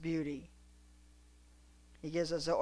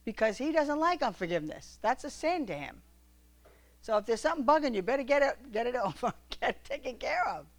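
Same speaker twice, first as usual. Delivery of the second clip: fervent exhortation; 6 semitones higher than usual. Real, not acted. Preacher exhorting the congregation, fervent. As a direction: urge them hard, no softening.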